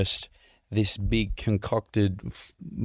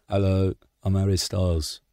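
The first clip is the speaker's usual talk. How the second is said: Impression of a pop singer. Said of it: "Can you do a pop singer impersonation"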